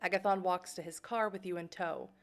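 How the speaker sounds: even, measured game narration; story narration. A narrator's reading. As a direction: read it out like a storyteller. Reads game narration aloud.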